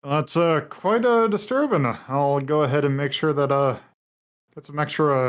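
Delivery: a hint of an old-timey announcer. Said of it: "like, announcer voice".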